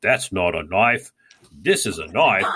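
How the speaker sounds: put-on slow, light Australian accent as Crocodile Dundee; lightly imitating an Australian bushman's Australian accent. Quoting Crocodile Dundee's knife line in an Australian accent. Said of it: "says in an Australian accent".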